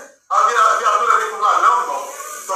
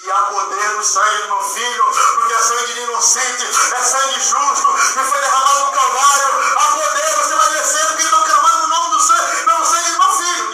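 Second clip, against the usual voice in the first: building divine command. Retold or imitated. God speaking, builds to shout.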